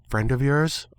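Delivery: ordinary delivery, nothing marked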